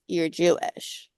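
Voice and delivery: slow, flat judgmental statement. Retold or imitated. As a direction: pronounce it as a verdict, slowly. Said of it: "very judgmentally goes".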